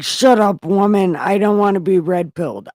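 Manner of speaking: loud, fast hammed-up yelling; Adam yelling at Eve, hammed up; mock angry shout. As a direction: bark it at her in fake fury.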